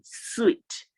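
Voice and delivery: sweet, high, long ee; sweet, the ee lifted high. Shown as a demonstration. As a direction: model sweet for them to repeat. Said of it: "Repeat it after me".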